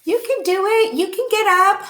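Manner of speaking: high, loud little bird voices; sparrows cheering. A narrator's reading. Sparrows urging Peter to get up. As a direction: chirp encouragement at him. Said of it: "they were like".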